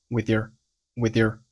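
"with your" reduced and run together; unstressed, linked "with your"; weak forms. Shown as a demonstration. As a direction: pass lightly over "with your" as one unit. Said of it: "都是弱读".

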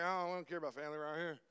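lightly mocked Yankee, quick and offhand. Southern preacher teasing Yankees about family, quick mock-Yankee voice. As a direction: rattle it off as an imitation of a dismissive Yankee. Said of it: "Some of you Yankees are like".

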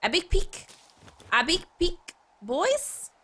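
high-pitched silly announcing voice; playful put-on crowing. Streamer showing the boys a found pack, playful crowing. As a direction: crow over the find in a put-on voice.

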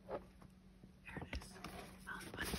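hushed slow whisper. Real, not acted. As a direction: breathe it softly and slowly. Hushed reveal of bunny.

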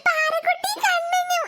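put-on laughing child calling out; excited laughing announcement; gleeful call. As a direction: shout their names with glee.

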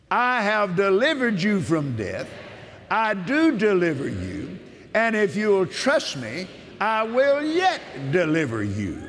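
solemn preacher's proclamation; preaching scripture. Acted.

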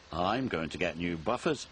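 low, softly spoken gloat. A narrator's reading. Ben boasts to his twin about new buffers, gloating. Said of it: "he gloated to Bill".

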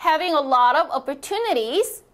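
slow, clear model sentence for repeating; teacher reading aloud slowly for practice. Shown as a demonstration. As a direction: read it slowly so students can follow. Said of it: "소리 크게 내어주세요".

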